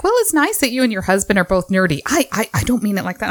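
mildly flustered, backpedaling; retold flustered backtracking. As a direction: imitate someone flustered, tripping over a hasty correction. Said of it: "got real flustered".

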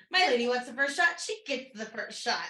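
gleeful repeat. Retold or imitated. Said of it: "I love that".

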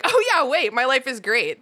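playful, high-pitched "oh yeah" moment; sudden happy realization. Retold or imitated. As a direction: voice a baby suddenly remembering life is good. Voices a baby shocked out of crying.

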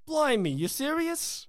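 slow, high mock British disbelief; hammed-up British incredulity; British accent. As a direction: ask it in a playful fake British accent. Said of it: "in a British accent".

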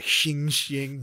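imitated ring of a blade being sharpened; knife-sharpening noise. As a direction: make sharp metallic sliding sounds. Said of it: "sharpening his knife".

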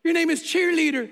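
imitated gleeful verdict; gleeful announcement. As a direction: hand down the nickname with mock glee. Guy announces the nickname.

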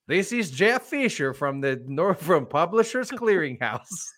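slow mock Russian caller; Russian accent. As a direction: draw it out as a Russian scammer. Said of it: "some Russian dude called me".

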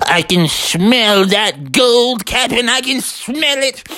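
high, drawn-out mounting excitement; excited gold sniffer. A narrator's reading. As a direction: announce a scent to the captain.

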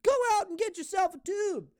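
high, bright announcer pitch for the slogan; hammed-up commercial voice. Shown as a demonstration. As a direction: sell it like a TV ad. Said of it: "Free slogan out there".

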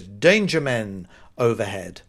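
"Danger men" run together like one name, slowly; misplaced stress. Shown as a demonstration. Misreading a scaffolding sign, stress making "Danger men" one compound. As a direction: read "Danger men" as a kind of man, slowly. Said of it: "put the emphasis on the wrong word".

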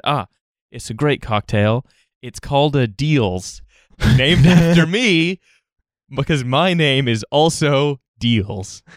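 put-on lightly done London street accent, slow; a hint of a Phone Shop geezer, drawn out. Bartender retelling a customer's slow London street accent. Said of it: "in the same accent that the guys in Phone Shop use".

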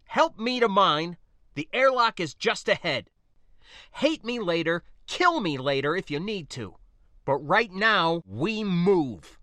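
a soldier hurrying a wounded ally; urgent soldier. Acted. Soldier urges her to the airlock.

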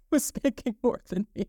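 said through a laugh. Real, not acted. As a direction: laugh at the unfairness while saying it. Laughs telling unfair pay story.

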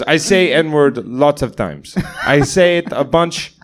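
Nepali-accented impression of a comic; amused mimicry of a thick Nepali accent. Nepali comic carries on his story, thick accent. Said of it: "this really thick accent".

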